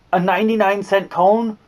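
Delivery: incredulous. Retold or imitated. Mocking outrage at the reward.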